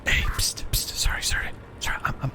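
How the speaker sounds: hushed conspiratorial whisper. Acted. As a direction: whisper so nobody overhears. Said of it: "I'm talking in a whisper".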